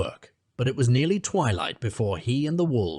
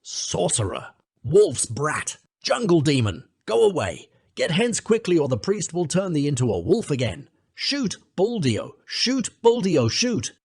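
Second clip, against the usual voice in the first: villagers shouting; 6 semitones higher than usual. Acted. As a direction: hurl the curses at the boy. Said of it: "the villagers shouted".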